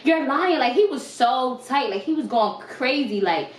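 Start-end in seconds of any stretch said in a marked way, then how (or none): 0.0-0.6 higher, slow mock boyfriend yelling liar; imitated angry accusation. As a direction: slowly spit out the accusation, in a higher voice. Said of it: "He like".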